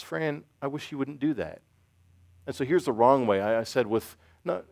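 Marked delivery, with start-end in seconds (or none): 0.0-1.6 soft, slow, gentle reproach. Retold or imitated. Wife to husband who left the baby crying, very gently. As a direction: ease the reproach out tenderly, imitating the wife. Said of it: "Laura very gently says".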